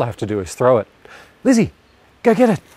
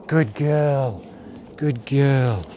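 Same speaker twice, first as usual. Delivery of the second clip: calm praise; 3 semitones higher, much slower than usual. Shown as a demonstration. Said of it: "change the tone of my voice to being nice and calm".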